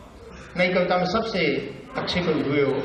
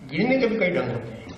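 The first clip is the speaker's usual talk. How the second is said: brisk, conversational line of verse; Bhavani Prasad Mishra; faster than usual. Acted. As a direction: say the verse as casual chat. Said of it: "बातचीत की शैली".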